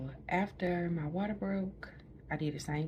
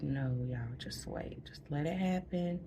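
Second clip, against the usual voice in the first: calm reassuring. Retold or imitated. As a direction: soothe them like nothing is wrong. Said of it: "That's how I'm talking to the nurses".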